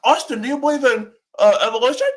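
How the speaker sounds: put-on debater grilling an opponent; Ken Hellman. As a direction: pose it as a loud, leading question. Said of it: "I wanna see Ken Hellman".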